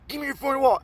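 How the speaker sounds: high-pitched mock mugger; acted robber's demand. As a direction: press the demand urgently.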